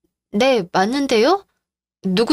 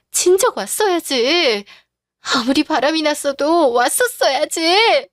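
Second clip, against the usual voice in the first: reproach; 5 semitones higher, slower than usual. Acted. Wife confronts absent husband.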